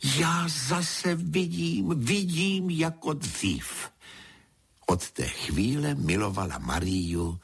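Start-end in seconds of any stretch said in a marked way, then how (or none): 0.0-3.9 high, slow cry of joy; rapturous, drawn-out exclamation; joyful cry. A narrator's reading. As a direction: marvel at seeing again. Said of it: "Paní vykřikla".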